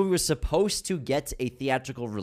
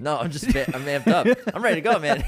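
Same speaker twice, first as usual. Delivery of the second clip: hyped and loud; pumped, bringing the energy; amped up; 2 semitones higher, 4 dB louder, faster than usual. Real, not acted. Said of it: "I've never seen this energy".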